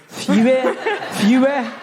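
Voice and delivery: insistent correcting repeat; mock-schoolteacher insistence; pedantic correction. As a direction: correct the word pointedly, each one separate.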